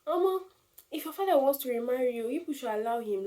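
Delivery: high-pitched mock pleading with a bereaved mother; insensitive advice-giver. Someone advising a newly bereaved mama, mock-coaxing. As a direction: imitate tactless advice, pitched well up. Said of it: "And you now be like".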